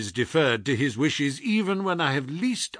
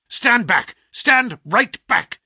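higher, louder and slow, commanding; sharp imperious command; 10 semitones higher, 6 dB louder, slower than usual. A narrator's reading. Sick detective ordering his friend away, sharp and imperious. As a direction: bark the order to keep away. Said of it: "with the sharp imperiousness".

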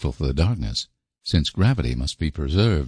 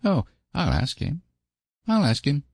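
quick; 10 semitones higher than usual. Acted. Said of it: "said Davy quickly".

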